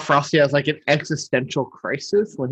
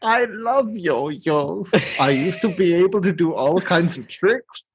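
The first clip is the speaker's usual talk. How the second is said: Burgermeister delighted; 4 semitones higher, slower than usual. Retold or imitated. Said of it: "over the top the Burgermeister is".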